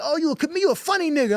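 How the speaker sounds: high, amused mock Blood; gang member voice. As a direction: squeak it up, impressed. Gang member reacts to comedy.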